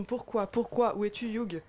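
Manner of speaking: mock lament. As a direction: call out for a lost idol in mock despair. Lamentation jouée sur l'acteur absent. (fausse lamentation théâtrale)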